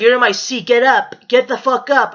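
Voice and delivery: mildly angry acted demand; imitating an aggressive stranger; retold yelling. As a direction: order someone up, a touch heated. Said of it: "why the fuck you gotta yell".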